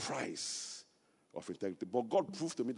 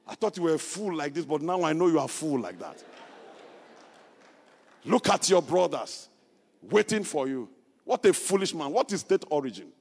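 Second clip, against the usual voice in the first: rising mocking scorn, louder and higher as it goes; 4 semitones higher, 9 dB louder than usual. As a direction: throw the insults like a scornful crowd. Critics mocking his refusal.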